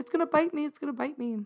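high screaming, repeated over and over. Recounting a bug landing on the speaker's leg, retelling own scream. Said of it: "and I was screaming".

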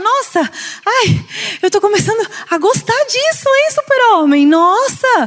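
mock calm, loosened-up, at ease, high easy voice. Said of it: "vai ficando mais tranquila, mais relaxada".

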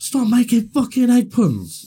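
very high, shrill, loud, furious yell. Retelling yelling at the TV during a show full of egg puns: retelling a loud yell. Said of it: "Really fucking loud at the telly".

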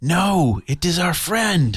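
loud shouting. Shouting to a rat in a fight that the target is a friend: shouting. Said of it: "use my free action to shout".

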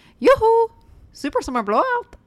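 high, loud, called-out put-on Scandinavian accent. Retelling the bit that makes your tanning salon boss crack up every time, in a put-on Scandinavian accent. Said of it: "With an accent?".

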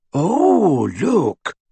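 whispering happily. Luna whispers as the Ravenclaws crowd around Alecto, whispering happily. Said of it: "whispered Luna happily".

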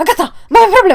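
put-on shrill, loud, high, terrified outburst. Retelling a phone call from Wojtas, imitating Wojtas's terrified voice. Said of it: "z takim przerażonym głosem".

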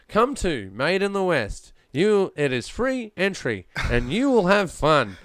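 wooden, stiff robotic ad-read with forced liveliness. Recreating one of their oldest voiceovers: a stiff robotic voiceover.

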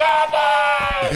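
put-on very high, shrill toddler screaming at full volume. Retelling a two-year-old's outburst in the restaurant: imitating a child screaming. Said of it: "just started screaming at Candy as loud as he can".

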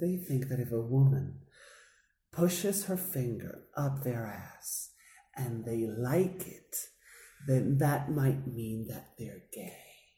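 put-on quiet sweet voice. Retelling what a woman says about men: imitating her quiet, sweet voice. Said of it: "she's so sweet when she does".

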